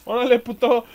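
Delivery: loud burst of cheering; triumphant shout. Real, not acted. Gamer celebrating a kill at enemies, loud cheer. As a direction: bark it out after the kill.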